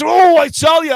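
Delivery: high, loud burst of glee; excited exclamation. Real, not acted. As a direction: let the joy spill out. Celebrating the lead.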